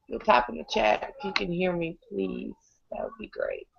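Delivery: hoarse, strained voice; croaking through a sick throat; lost voice. Real, not acted. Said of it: "I don't have any voice tonight".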